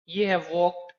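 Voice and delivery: वॉक्ड said with a light t ending, not d; soft t ending. Shown as a demonstration. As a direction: let वॉक्ड end in a soft t sound. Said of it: "ड की जगह पर मेरे मुंह से ठ का sound".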